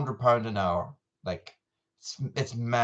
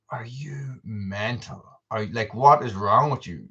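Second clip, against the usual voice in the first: mock disbelief. Horse riders reacting to his barrel dip plan, mock incredulous. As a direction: imitate someone baffled by your madness.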